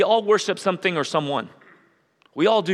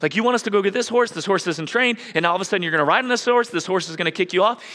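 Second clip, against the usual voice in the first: higher, faster skeptical disciple voice, a bit hammed-up; doubting disciples; 4 semitones higher, faster than usual. Preacher mimics the disciples doubting Jesus, mock worried. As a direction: rattle off the worries of a doubting follower. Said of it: "when they were like".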